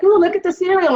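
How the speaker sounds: high, bright mock innocence to lure the kids; fake casual. Scene: mom luring her kids down the cereal aisle, sing-song.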